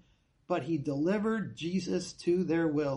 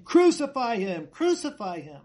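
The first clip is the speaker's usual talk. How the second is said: louder, higher retold shout; crowd shouting; 4 semitones higher, 5 dB louder than usual. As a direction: cry it out like the angry crowd. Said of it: "but they shouted".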